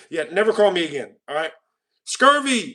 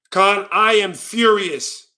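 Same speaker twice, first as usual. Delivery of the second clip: very slow, emphatic fake rage; mock fury; much slower than usual. Streamer showing Khan how mad he is, emphatic mock fury. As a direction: declare it word by word with hammed-up gravity. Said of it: "let me show you how mad I truly am".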